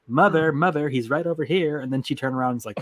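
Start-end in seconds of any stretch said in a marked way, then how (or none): 0.1-1.8 higher-pitched daughter calling out; imitated tattling daughter. Game villain's daughter alerting her mother, imitated high call. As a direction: call mother over in a raised girl's voice. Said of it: "And then she started going".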